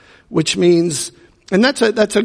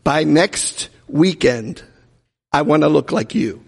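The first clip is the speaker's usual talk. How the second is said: slow, earnest, half-laughing; mock solemn wish; slow deadpan. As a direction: drag it out with a straight face. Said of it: "Pastor Craig looked at him and said".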